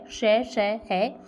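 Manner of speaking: श drawn out slowly, each hiss held long; sibilant demo. Shown as a demonstration. Hindi teacher showing the three श sounds to students, slow. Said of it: "उष्म व्यंजन हो जाएंगे तीनों के तीनों श".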